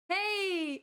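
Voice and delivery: high excited cry. Real, not acted. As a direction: burst out with delight. Excited at light bulb model.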